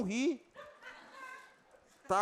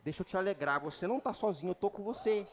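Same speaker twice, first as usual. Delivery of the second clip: devil voice; 8 dB quieter than usual. Retold or imitated. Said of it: "Aí o diabo".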